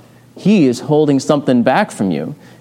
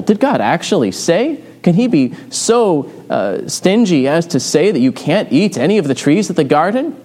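mock incredulity; 4 semitones higher than usual. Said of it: "He finds God's words surprising or incredible".

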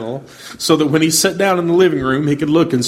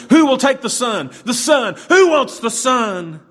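yelling; 9 semitones higher, slower than usual. Retold or imitated. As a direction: shout it across the hall, slow at the end. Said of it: "the auctioneer kept yelling".

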